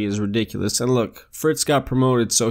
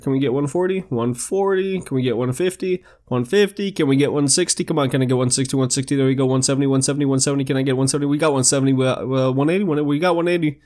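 rapid auction chant, lightly done; auctioneer voice; much faster than usual. Pretend. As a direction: call the bids like an auctioneer. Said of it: "my little auctioneer voice".

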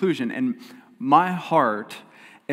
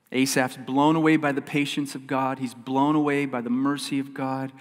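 usual speaking voice

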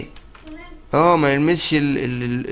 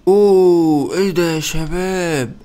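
much louder oh, thrown out in shock; loud surprised oh; 3 semitones higher, 4 dB louder, much slower than usual. Real, not acted. Gamer landing in a new map, loud startled oh. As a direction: blurt it out startled.

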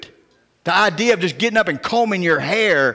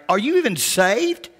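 incredulous retort; 4 semitones higher, slower than usual. Retold or imitated. Mock retort to secretary.

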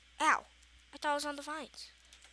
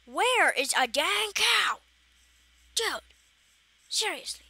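exasperated; 7 semitones higher, 6 dB louder than usual. Real, not acted. Frustrated searching.

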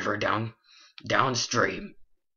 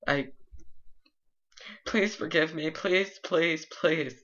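high, pitiful begging voice; a creature grovelling for forgiveness; high pleading creature; 4 semitones higher than usual. Acted. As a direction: beg forgiveness in a high put-on voice.

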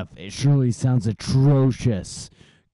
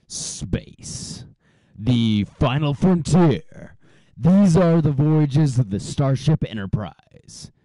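movie trailer voice; 3 semitones higher, 3 dB louder than usual. Pretend. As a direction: boom it out like a starship narrator. Star Trek intro recited.

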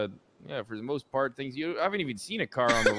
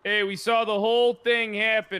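slow, high, raised voice; urgent calling out; 7 semitones higher, 4 dB louder than usual. Pretend. Witness to police officer, urgent calling out. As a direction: call across to flag someone down.

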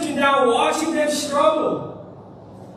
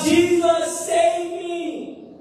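crying out; 4 semitones higher, much slower than usual. Acted. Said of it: "and he cries out".

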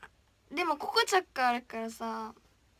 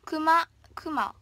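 slow, loud-breathed playful whisper; 3 semitones higher, 7 dB louder, slower than usual. Pretend. Idol teasing viewers about the bear costume, whispering. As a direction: stretch each word in a breathy hush.

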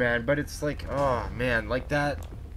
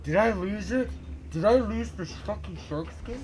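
panicked question; 10 semitones higher than usual. Real, not acted. Panicking over lost shark skins.

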